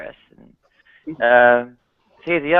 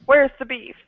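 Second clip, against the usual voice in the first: prim high lady's voice, much higher; mock a prissy woman, light and high; 11 semitones higher than usual. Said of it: "she slips into her lady voice".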